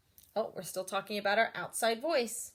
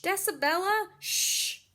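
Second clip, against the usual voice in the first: a hint of a hushing adult; lightly voiced scold, half whispered; hushing grown-up; 9 semitones higher, 4 dB louder than usual. Librarian scolding the loud girl, mild hush.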